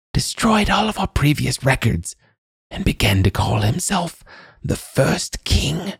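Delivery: put-on high old woman's voice; cackling old crone. A narrator's reading. Old woman telling of the cruel king, high crone voice. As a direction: relish the tale in a high crone voice.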